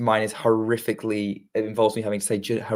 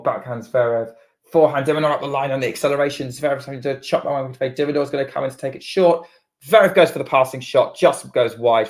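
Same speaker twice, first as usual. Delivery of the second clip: quick running tennis commentary; live play-by-play; 4 dB louder than usual. Acted. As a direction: call each shot as it happens.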